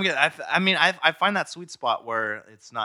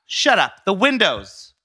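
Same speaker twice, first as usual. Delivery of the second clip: lightly voiced flustered mother; a touch of a cross mom; impression of his mom; 4 semitones higher than usual. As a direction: scold your son, mildly indignant. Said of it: "You be your mom".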